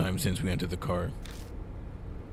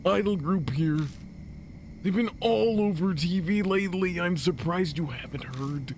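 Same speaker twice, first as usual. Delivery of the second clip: high squeaky character voice; 10 semitones higher than usual. Acted. Same character voice returns.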